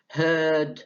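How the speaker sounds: Heard said hed with no r; r dropped. Shown as a demonstration. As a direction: say Heard with no r sound. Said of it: "فين ال R".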